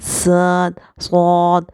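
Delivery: صاد said with a sharp hiss; whistling letters. Shown as a demonstration. Teacher demonstrating whistling letters. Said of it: "مثلاً ز".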